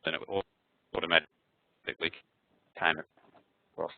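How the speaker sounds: choppy, stretched call audio; glitchy robotic call dropout; breaking up audio. Real, not acted. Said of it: "your audio is breaking up extremely badly".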